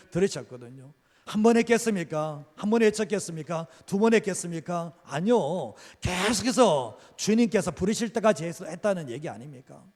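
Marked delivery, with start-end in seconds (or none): 1.3-9.8 raised, insistent sermon voice; preaching. Acted. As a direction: drive the questions home to the congregation. Preaching at full force.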